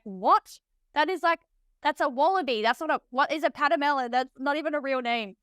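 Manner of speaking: mock-baffled, pitch lifting after the first word; retold incredulity. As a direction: protest as if being fooled. Retells disbelief at made-up-sounding name.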